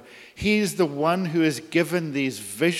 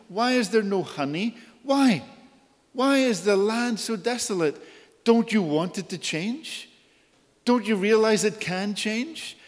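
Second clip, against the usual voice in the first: God pleading; 5 semitones higher than usual. Retold or imitated. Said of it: "he says".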